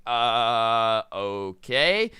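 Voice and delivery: low, drawn-out wary mumble; mock uneasy kid giving in; hesitant compliance. Boy's wary reply to threat.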